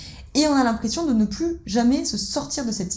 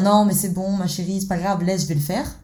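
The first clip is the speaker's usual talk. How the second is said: soothing rescuer. Acted. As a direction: let her off gently. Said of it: "parent nourricier qui vient dans sa posture de sauveur".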